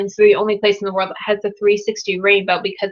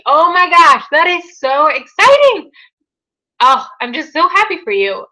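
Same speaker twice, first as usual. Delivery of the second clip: much higher and louder, gushing with joy; thrilled; 8 semitones higher, 6 dB louder than usual. Real, not acted. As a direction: squeal it for the viewer's good news. Reacting to viewer's paid-off loan.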